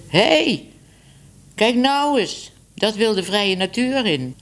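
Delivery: high sharp cry of alarm; mother cat yelping at her runaway kitten; startled exclamation. Acted. Mother cat spots wandering kitten.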